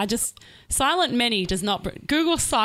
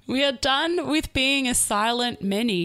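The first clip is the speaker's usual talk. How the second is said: slow careful recital; 4 semitones higher, slower than usual. Shown as a demonstration. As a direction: recite the lyric slowly. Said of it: "do you wanna recite them".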